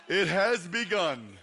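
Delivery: ordinary talk, nothing marked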